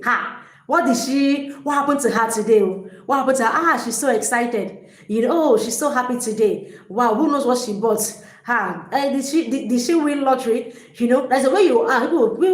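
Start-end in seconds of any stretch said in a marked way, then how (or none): 0.0-10.7 curious onlooker, pitch a bit up; imagined onlooker. Retold or imitated. Imagining what onlookers think of her, lightly curious. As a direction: wonder aloud what she won. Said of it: "What are you gonna be thinking?".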